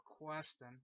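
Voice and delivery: name said Questen in a Boston accent, no r; a light Boston twang on Questen. Shown as a demonstration. To viewers, naming the principal in a light Boston accent. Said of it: "Talking in my Boston accent like that".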